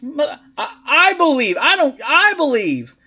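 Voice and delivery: worked-up stammer, pitched high; Chris Benoit. Retold or imitated. Host plays a wrestler defending himself, snapping. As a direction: sputter it with mock indignation. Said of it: "Benoit snaps".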